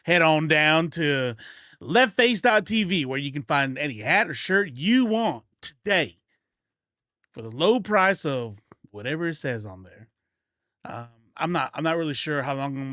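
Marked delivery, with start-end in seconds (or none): 0.0-3.1 mock ad read. Mock ad plug for merch. 3.1-10.1 put-on country accent. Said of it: "with the country accent".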